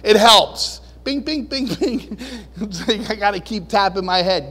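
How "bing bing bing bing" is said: button beeps. Shown as a demonstration. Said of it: "push buttons on my forehead".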